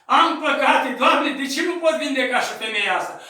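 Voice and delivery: chemare tare, mai sus, rugătoare; strigă-I lui Dumnezeu; strigăt către Dumnezeu. Retold or imitated. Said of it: "a strigat către Dumnezeu". (strigăt rugător către Dumnezeu)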